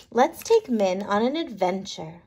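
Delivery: ordinary delivery, nothing marked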